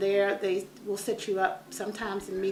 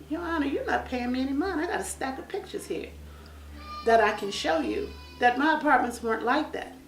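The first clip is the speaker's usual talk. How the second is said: raised, pleading voice; pleading to judge; 5 semitones higher than usual. Retold or imitated. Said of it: "we're sitting here like".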